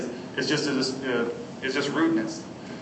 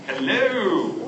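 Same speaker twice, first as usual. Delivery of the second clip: gentle hello; 3 semitones higher than usual. Shown as a demonstration. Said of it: "all the ways you can say hello".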